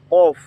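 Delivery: কফ with a throaty qalqala bounce; qaf letter name. Shown as a demonstration. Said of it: "কলকলার হরফ".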